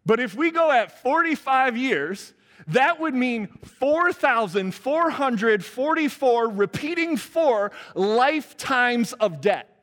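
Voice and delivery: high, loud, slow, drawn out; emphatic preaching. Real, not acted. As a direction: lean hard on every four. Preacher building to emphatic climax.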